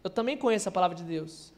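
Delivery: low, quiet devil quoting scripture; diabo. Retold or imitated. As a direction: imitate the tempter, dropping low and soft. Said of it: "Aí o diabo falou assim". (diabo imitado, voz grave e baixa)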